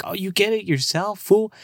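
sing-song taunt from the other grads; mocking classmates. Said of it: "They're like".

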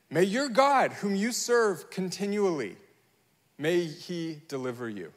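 mean every word, hoping he lives; heartfelt plea from a helpless king; sincere hope. Shown as a demonstration. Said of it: "actually hoping and praying".

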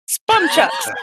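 giggling through a silly made-up word; laughing. Real, not acted. Player cracking up at her own joke, laughing. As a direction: squeal it out laughing. Joking mispronounced nunchucks.

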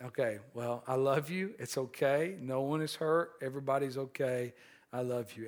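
calm and loving. Retold or imitated. Father comforting his distraught son, soft and tender. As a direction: comfort him quietly. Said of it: "very calmly".

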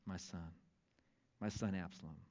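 hushed, broken father's lament; grieving lament. Acted. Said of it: "And thus he said as he walked".

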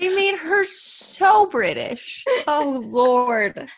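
high, slow posh British; British accent. Retold or imitated. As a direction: drawl it, very British. Mock British reaction.

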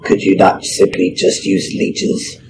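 whispered, hissing lizard voice; the lizardfolk cleric questions the halfling, hissed. Acted. Usk speaks in character.

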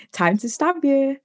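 high, slow and gleeful, a playful threat; gleeful stepmom. Retold or imitated. Stepmom cheerfully announcing the nightly injection, high and gleeful. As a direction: relish every word like a happy villain.

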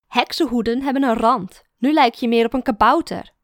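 loud teasing, still laughing; laughing mockery. A narrator's reading. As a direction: poke fun at the gnome hat. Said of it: "lacht Mara me uit". (lachend spottend)

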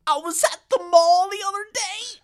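high, loud run-on; Paul impression. Imitating Paul telling a story while poking. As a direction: blurt it while poking someone. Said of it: "he'd be like".

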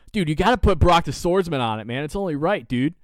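mock-insistent fanboy plea; retold excited fan. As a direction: imitate a pushy, pumped-up fan. Fans urging him to sign.

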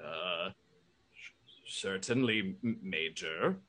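a hint of a timid robot butler; Bertrand voice. Bertrand answers the Major.

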